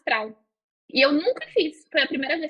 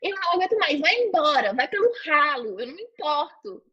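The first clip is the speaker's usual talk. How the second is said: mild mock yell; 3 semitones higher than usual. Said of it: "comecei a gritar uma coisa pra entidade".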